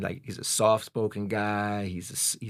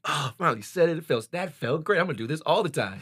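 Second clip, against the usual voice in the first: higher, louder excited retelling; pumped; 7 semitones higher, 3 dB louder than usual. Retold or imitated. Thrilled son to himself after calling dad, pumped. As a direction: act out being pumped up after the call. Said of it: "I was feeling pumped".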